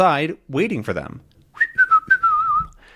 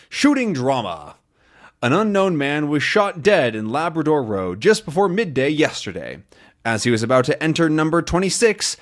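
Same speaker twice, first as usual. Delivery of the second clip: news read. Acted. Reading newspaper aloud.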